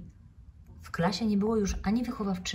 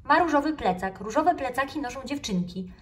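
much higher, louder smug voice; smug know-it-all; 7 semitones higher, 5 dB louder than usual. Acted. Little frog lecturing classmates, high smug know-it-all. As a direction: puff up and state it like a smarty-pants. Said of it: "przemądrzale nadęła policzki".

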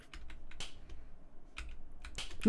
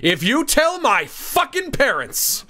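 higher, louder, slow threat; mock threatening; 8 semitones higher, 4 dB louder, slower than usual. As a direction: build to a hammed-up threat. Threat building up.

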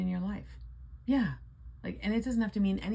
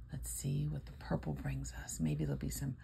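whisper; 6 dB quieter than usual. Real, not acted. Excited whisper about last ticket.

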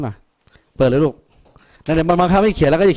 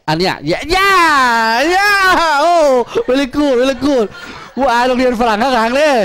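mock praise; 8 semitones higher, much slower than usual. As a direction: cheer over the top, in jest.

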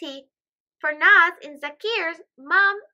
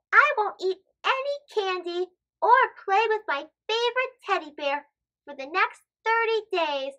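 put-on a touch higher, earnest little girl; lightly voiced girl; 4 semitones higher than usual. Farnaz promising to give up candy, lightly voiced earnest girl. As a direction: promise it solemnly like a small girl. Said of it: "Farnaz says".

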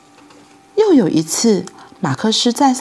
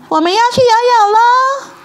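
excited shouting; 11 semitones higher, 4 dB louder than usual. A narrator's reading. Two kids shouting to their parents they're off swimming, high excited yell. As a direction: call it out like kids racing off. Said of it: "他们喊着".

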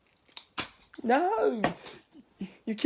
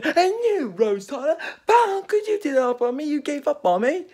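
wounded reproach; 13 semitones higher, 5 dB louder than usual. Acted. Regenerated Doctor berates Rose.

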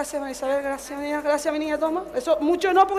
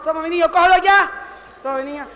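usual speaking voice

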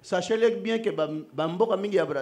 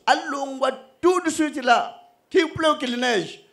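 higher, louder urgent command retold; urgent order; 8 semitones higher, 6 dB louder than usual. Preacher retells the order to leave at once, urgent higher call. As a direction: insist they leave right now.

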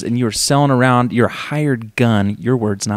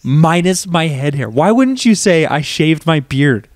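mock quoting; 4 semitones higher than usual. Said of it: "Why would you say it like that".

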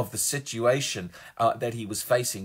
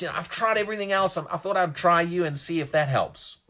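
higher, hurried imitation of a half-believer; offhand doubter's voice, pitched up; mock doubting; 5 semitones higher than usual. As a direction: rattle it off like a last resort. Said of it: "He's not doubting".

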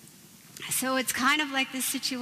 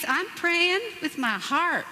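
laughing excuse; 5 semitones higher than usual. Retold or imitated.

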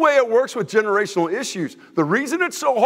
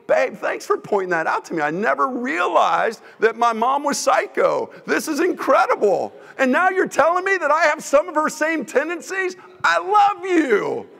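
sarcastic thanks; 5 semitones higher than usual. Retold or imitated. Mock spouse reply, sarcastic.

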